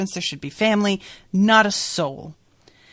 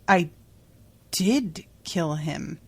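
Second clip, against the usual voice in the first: slow, halting disbelief; stunned, with a long gap after the first word; shocked; slower than usual. Acted. Ethan answers the Emperor's rebuke, stunned with shock. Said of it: "nearly faints with shock".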